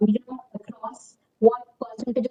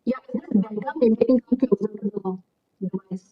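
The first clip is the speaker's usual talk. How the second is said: muffled, sound fading in and out; 3 semitones lower than usual. Real, not acted. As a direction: voice muffled as if covered. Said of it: "the audio is very muffled".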